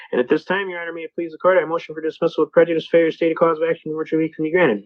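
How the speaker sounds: fast, practised patter of a self-represented litigant; rapid courtroom recital. Shown as a demonstration. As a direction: rattle off the legal motion. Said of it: "if I'm talking too fast".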